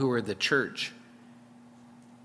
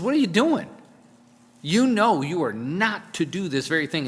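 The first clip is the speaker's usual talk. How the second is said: high, louder scolding burst; chewing out; 5 semitones higher, 4 dB louder than usual. Retold or imitated. Preacher voicing Samuel scolding Saul, a loud scolding. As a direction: Samuel chewing out the king, retold. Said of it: "he chews him out".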